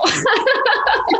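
squeaky giggle at herself; high burst of laughter. Real, not acted.

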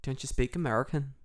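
imitated country twang; country accent. Host imitating locals who question the tourist, country accent. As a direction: lightly put on a country accent. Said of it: "they sound kinda country".

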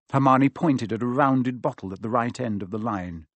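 usual speaking voice

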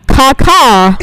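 lightly imitated bird call; bird caw. Storyteller imitates the bird swooping in, lightly voiced caw. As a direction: caw loudly, a touch of crow. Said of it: "And it goes".

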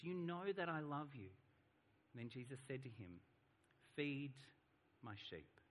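measured, evenly paced Bible reading; scripture reading. A narrator's reading. Preacher reads the Gospel story to the congregation, scripture reading. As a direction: read the passage aloud to a congregation.

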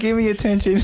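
high squeaky laughing dog voice; yappy chihuahua voice. Retold or imitated. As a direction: echo the needy little dog, laughing. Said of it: "the dog is like".

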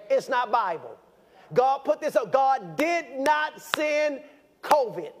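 slow emphatic preaching. Real, not acted. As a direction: drive each word home, preacher style. Preaching at full force.

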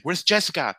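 high, loud mock panic; urgent calling out. Retelling a search for the nurse, urgent shout. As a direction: call out for help across backstage.

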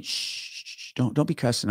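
unvoiced shushing, then hushed scolding; imitating shushing supervisor. Retelling how the supervisor shushed him and told him off. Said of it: "And he says to me".

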